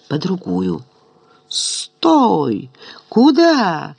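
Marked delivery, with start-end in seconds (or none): 1.5-3.9 high squealing yell; shrill falsetto shriek. A narrator's reading. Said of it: "взвизгнул фистулой Еропкин". (визгливый фальцет)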